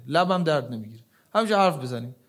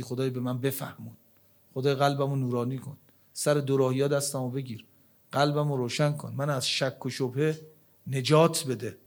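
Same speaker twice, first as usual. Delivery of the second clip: sincere prayer; 4 semitones lower, 3 dB quieter than usual. Shown as a demonstration. Softer, voicing a sincere prayer.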